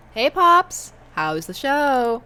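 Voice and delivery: lightly voiced teenage girl; teen daughter.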